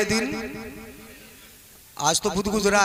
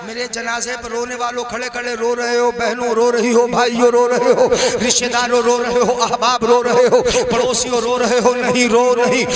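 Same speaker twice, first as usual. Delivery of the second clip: dead man addressing mourners; 5 dB louder than usual. Acted. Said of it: "मरने वाला बोल रहा है".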